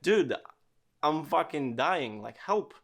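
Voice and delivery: put-on choking kid pleading with an unbelieving friend; desperate plea. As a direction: beg for help as if choking for real. Kid really choking, begging.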